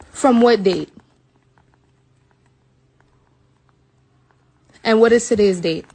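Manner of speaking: loud, furious disbelief at the date; real outrage. Real, not acted. Reading the test date to viewers, loud and outraged. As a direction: she can't believe what she's reading.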